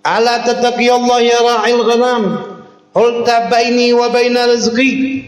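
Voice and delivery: high, slow chanted Arabic as the wolf; talking wolf. Acted. Wolf speaks to the shepherd in a high, slow voice. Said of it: "Apa katanya?".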